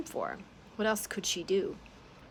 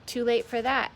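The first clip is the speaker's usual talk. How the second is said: furious; 5 semitones higher, 7 dB louder than usual. Acted. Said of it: "had been furious".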